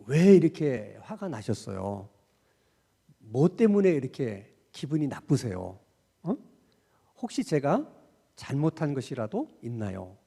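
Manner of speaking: a touch of calm concern; gentle question. Shown as a demonstration. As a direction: ask kindly, as if you truly want to know. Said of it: "이렇게 꼭 질문을 하라는 거야".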